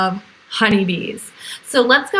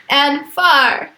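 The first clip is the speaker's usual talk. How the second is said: laughing far; 3 semitones higher, 4 dB louder than usual. Shown as a demonstration. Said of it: "near the beehive and far".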